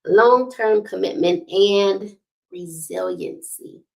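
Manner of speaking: slowed "Long-term commitment and resiliency", falling; said again slow. Shown as a demonstration. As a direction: spell it out slowly for everyone. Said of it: "I'm gonna say it again slow".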